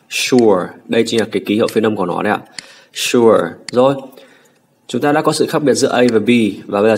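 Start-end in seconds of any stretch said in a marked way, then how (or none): 0.1-0.7 "sure" begun on a weighty sh; heavy SH sound. Shown as a demonstration. Teacher repeats the model word, heavy SH. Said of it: "Đọc rất là nặng". 2.9-3.4 "sure" with a firm, full sh; heavy SH sound. Shown as a demonstration. Teacher repeats it once more for students, heavy SH. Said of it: "Đọc rất là nặng".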